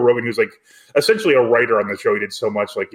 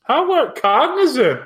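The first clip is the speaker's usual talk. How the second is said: surprised; 13 semitones higher, much slower than usual. Real, not acted. Baffled at an odd credit.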